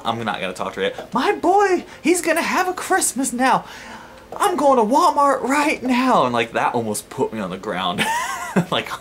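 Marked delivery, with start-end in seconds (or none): 1.2-6.3 high, loud, slow redneck holler; yelling out. Retold or imitated. Overjoyed mother planning Christmas shopping, high mock yell. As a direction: proclaim it in a piercing mock redneck voice. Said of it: "then she yells out".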